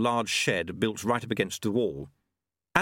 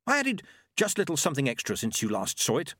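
mildly proud, higher character voice; 5 semitones higher than usual. Acted. Monk presenting improved bowl, mildly proud. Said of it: "said Q proudly".

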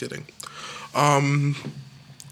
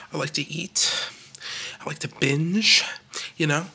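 whisper. Acted. Confessing binge eating.

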